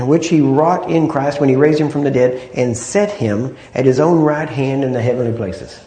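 deliberate, forceful scripture reading; unhurried, emphatic reading. Real, not acted. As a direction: take your time over the verse, stressing key words. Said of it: "So just take your time and read it".

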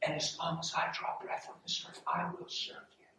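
soft, hushed pledge to a wife; retold tender vow. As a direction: vow it quietly, almost whispered.

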